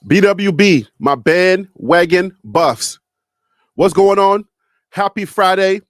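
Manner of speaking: loud, pumped-up greeting to the fans; hype show opener. Real, not acted. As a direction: shout out to the crowd like a host opening the show.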